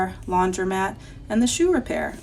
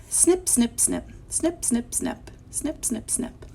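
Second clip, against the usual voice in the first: high, crisp snips tailing off softer; snipping scissors; 5 semitones higher, 5 dB quieter, slower than usual. Acted. Teacher reads haircut sounds to children, high snipping. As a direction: snip like scissors in little groups. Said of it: "Look at how he write the words".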